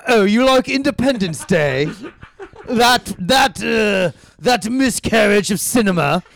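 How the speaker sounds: a light mock of a pompous film snob, rising in outrage; snobby intellectual. Mocking a bookish snob who scorns Independence Day, lightly hammed. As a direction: sneer at a lowbrow taste like a snob in a smoking coat. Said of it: "and is like".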